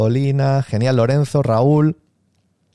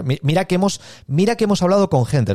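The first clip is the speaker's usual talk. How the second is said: sceptical client; 4 semitones higher than usual. Acted. Imitates client testing the seller.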